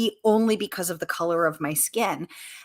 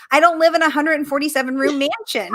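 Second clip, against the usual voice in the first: mock shocking reveal; 8 semitones higher, 6 dB louder than usual. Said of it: "in a shocking twist".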